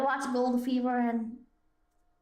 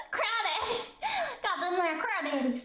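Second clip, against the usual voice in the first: hammed-up hillbilly accent, amused; 3 semitones higher than usual. Streamer savouring crawdad talk, hillbilly accent. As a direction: play the backwoods hillbilly. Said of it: "confusing Western with hillbilly".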